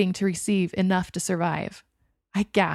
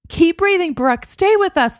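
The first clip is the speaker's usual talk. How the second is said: much higher, louder call; urgent shout; 10 semitones higher, 7 dB louder than usual. A narrator's reading. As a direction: yell to keep her conscious. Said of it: "the voice said again".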